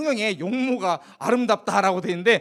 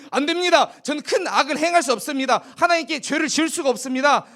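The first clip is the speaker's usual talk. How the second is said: higher, resolute, no room for doubt; firm refusal; 5 semitones higher than usual. Acted. Joseph refusing Potiphar's wife, firm and higher. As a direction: refuse her flatly and firmly. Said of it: "딱 거절을 했어요".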